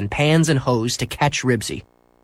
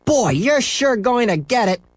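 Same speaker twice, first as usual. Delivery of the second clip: higher, slower gleeful taunt; taunting kid; 11 semitones higher than usual. Acted. Scooter taunting Henry, gleeful. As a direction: tease him with relish. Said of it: "said Scooter".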